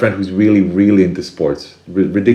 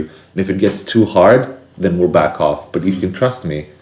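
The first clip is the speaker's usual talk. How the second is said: reassuring. Shown as a demonstration. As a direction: soothe a scared inner child. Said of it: "Then you can say something like".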